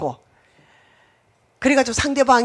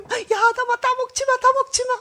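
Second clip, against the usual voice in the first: much higher, pleading divine warning; preacher acting God forbidding the fruit; God warning Adam. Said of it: "하나님".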